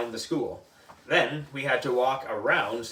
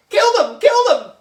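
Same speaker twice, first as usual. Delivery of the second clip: high loud yelling; loud high shout; battle cry; 11 dB louder than usual. Acted. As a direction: yell it like boys charging bugs. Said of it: "shouted the boys".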